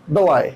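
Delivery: वलाई said as वलाई, stress on लाई, falling; teacher models वलाई, not वैलेट; right valet. Shown as a demonstration. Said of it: "वैलेट नहीं, बैलेट नहीं".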